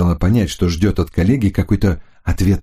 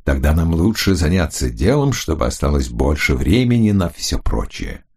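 lower, smooth male voice; lower, charming and businesslike; man's voice; 4 semitones lower than usual. Acted. Hunter speaks to Florinda.

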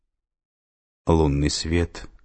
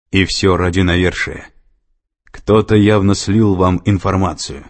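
louder, accusing man; 6 dB louder than usual. A narrator's reading. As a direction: hurl the accusation at her. Bellamy accuses Sato.

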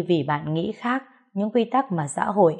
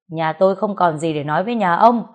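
father snaps back, louder, shutting the visitor out; angry shout; 5 dB louder than usual. Acted. Father shouting at neighbour who came to apologise, angry. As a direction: bark it at the unwelcome neighbour. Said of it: "bố nó quát lên".

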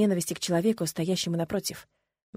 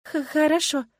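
higher, stammered in shock; stammering fear; 8 semitones higher than usual. Acted. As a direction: stutter like a wind-up doll. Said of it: "заведённой куклой отвечаю я". (заикаясь от страха, выше)

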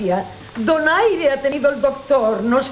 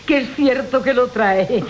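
laughing through the words, half amused; 2 semitones lower than usual. Acted. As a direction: chuckle your way through the mockery. Old woman mocks the gift. (riendo entre las palabras, con burla)

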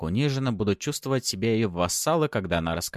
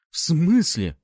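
higher, louder startled squeak; squeaky; 10 semitones higher, 7 dB louder, slower than usual. A narrator's reading. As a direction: squeak it out in alarm. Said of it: "пискнул один из парней".

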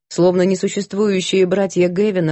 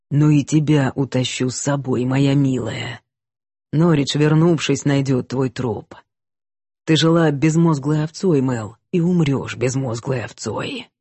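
slow hypnotic serpent hiss; 4 semitones lower than usual. Acted. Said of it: "змеиный голос".

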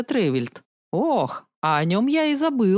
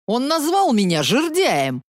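wailing complaint; 4 semitones higher than usual. Acted. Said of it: "проголосил серийный убийца".

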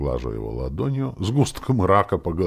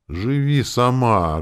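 slow, louder, higher bitter cry; bitter exclamation; 7 semitones higher, 6 dB louder, slower than usual. A narrator's reading. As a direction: throw the gift back in grief. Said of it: "горько воскликнула я". (горький громкий возглас, медленно и выше)

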